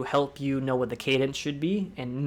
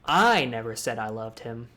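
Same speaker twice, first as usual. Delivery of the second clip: I given weight at the start; stress on I; 3 semitones lower than usual. Shown as a demonstration. Emphasis exercise repeated for viewers, stress on I. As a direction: open on I. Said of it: "you can change the word and".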